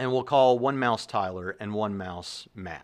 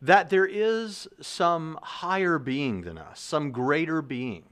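higher-pitched, deliberate pronouncement; a hint of a mouse solemnly positing a theory; lightly voiced mouse; 6 semitones higher, slower than usual. Tyler mouse puts a theory to Matt mouse, lightly acted, higher and deliberate. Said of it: "and the Tyler mouse says".

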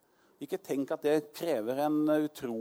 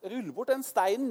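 Jesus commanding; 9 semitones higher than usual. Retold or imitated. Jesus commands stone removed.

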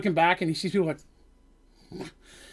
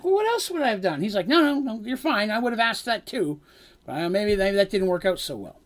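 defensive high voices; 4 semitones higher than usual. Acted. Party bickering after blunder.

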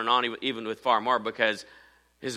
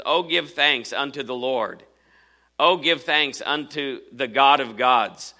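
slow solemn reading aloud; measured scripture recitation; slower than usual. Acted. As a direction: read the psalm with reverence. Reads the psalm slowly.

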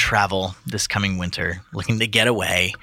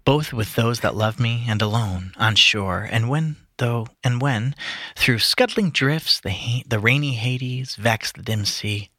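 slow, measured recitation; poem reading. Acted. Reading Tennyson to friends, earnest recitation. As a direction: read it with gravity, lingering. Reads Ulysses aloud.

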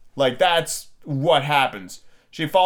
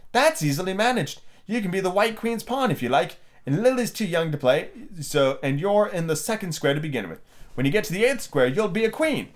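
higher-pitched storybook Queen, pleasant and assured; a hint of a kindly Queen; lightly voiced Queen; 4 semitones higher than usual. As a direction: give the Queen a lightly raised, lilting pitch. Reads the Queen's dialogue.

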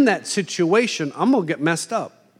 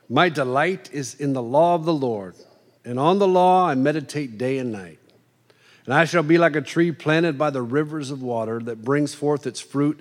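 steady, slightly lower reading of the psalm; scripture recitation; 3 semitones lower than usual. Acted. Preacher reciting the psalm to the congregation, measured reading. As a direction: recite the verses evenly, like reading aloud.

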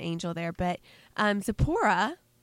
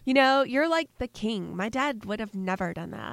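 put-on Valley Girl voice; 3 semitones higher than usual. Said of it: "a Valley Girl voice for her".

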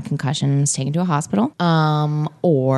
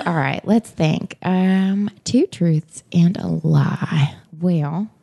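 lightly attempted Southern accent. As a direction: slip into a slow Southern accent. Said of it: "I can't keep it in A B".

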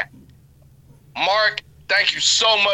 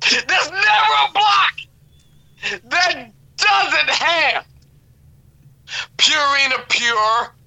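higher, slow mock sob sermon; fake crying preacher; 3 semitones higher, slower than usual. Mock eulogy builds to crying.

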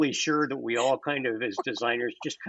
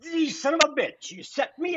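mock exasperation; 10 semitones higher than usual. Retold inner outburst at client.

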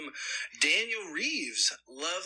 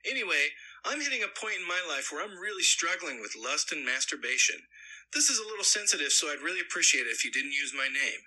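lightly put-on narrator read. Host reading a listener's email aloud, light narrator voice. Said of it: "In my best narrator voice".

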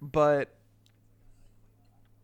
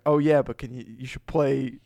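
lightly voiced, loud know-it-all friend; mild mimicry, slowing on the last words; Robert; 4 dB louder than usual. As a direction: imitate a friend butting in with a recommendation, slightly louder. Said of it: "such a good impression of Robert".

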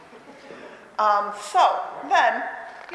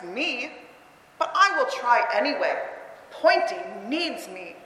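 flat, deliberate reading. Shown as a demonstration. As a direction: read every line flat, full stop each time. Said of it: "you need to read it this way".

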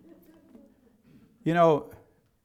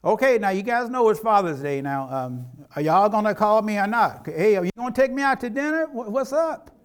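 lightly voiced dad begging his kids for a Father's Day call; a hint of a whiny father fishing for attention; lightly playing a dad pestering his kids to call; mock needy dad; 4 semitones higher, 3 dB louder than usual. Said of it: "I never say".

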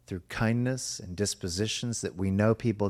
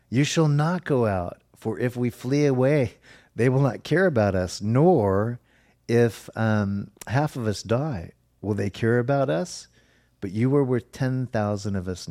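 urgent pleading cry; 3 semitones higher, 5 dB louder than usual. Acted. The people pleading with King David not to go, raised urgent voice. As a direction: insist he stay back, voice lifted.

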